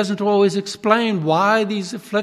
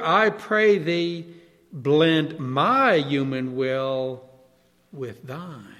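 slow, fading to hushed at the end; reverent poem reading; 2 semitones lower, slower than usual. Retold or imitated. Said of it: "Amy Carmichael put it like this".

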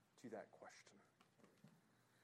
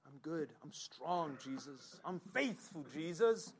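boastful Peter. Acted. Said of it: "And what does Peter say?".

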